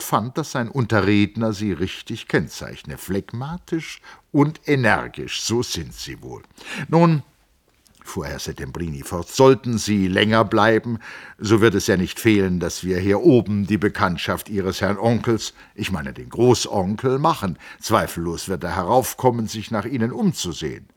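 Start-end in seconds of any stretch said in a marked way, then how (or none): 3.0-7.2 a hint of the smiling Italian scholar; brisk, polite teasing; lightly voiced Settembrini. A narrator's reading. Settembrini turning the talk back to the engineer, lightly voiced. 9.3-20.9 a hint of the smiling Italian scholar; brisk, polite teasing; lightly voiced Settembrini. A narrator's reading. Settembrini turning the talk back to the engineer, lightly voiced.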